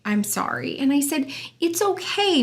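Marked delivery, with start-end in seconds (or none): 0.0-0.8 put-on softer, subdued child's apology; small, quiet admission; retold apology. Retold niece apologising after outburst. 1.6-2.4 higher, lilting comfort; soothing, as if to an upset kid; retold reassurance. Aunt soothing niece after apology.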